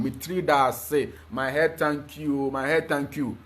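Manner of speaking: slow, gentle reply, Mitri da se; a hint of a grateful mother, slowed; mother's reply. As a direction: answer softly like the new mother. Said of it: "the woman will respond".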